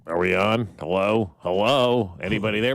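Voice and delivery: loud, calling out. Real, not acted. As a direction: call into the void, loud. Checking if they're on air.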